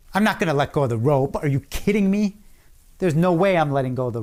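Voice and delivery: quick, indignant aside, rising at the end; mock disbelief, rattled off fast; incredulous retort. Quick indignant inner reply to order.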